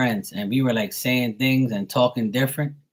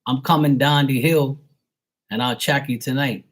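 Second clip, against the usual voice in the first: higher Bermudian accent demo; 3 semitones higher, 3 dB louder than usual. Shown as a demonstration. Islander making plans with a friend, Bermudian accent. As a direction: show off local Bermudian speech. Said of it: "Like we guys say, you know".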